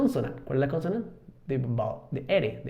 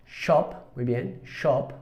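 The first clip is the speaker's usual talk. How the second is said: shop with a British rounded O; British "shop", modelled for learners; British pronunciation; much slower than usual. Shown as a demonstration. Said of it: "El sonido O en británico es O".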